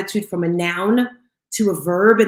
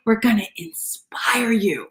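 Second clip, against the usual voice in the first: slow, hushed whisper after the shout; 3 dB quieter, slower than usual. Shown as a demonstration. Host to listeners, dropping to a slow whisper. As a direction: drop to a slow secret whisper.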